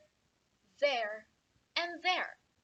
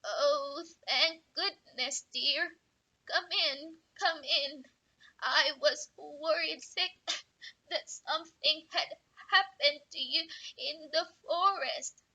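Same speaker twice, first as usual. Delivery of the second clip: grandma voice; 4 semitones higher than usual. Acted. Grandma welcomes visitor.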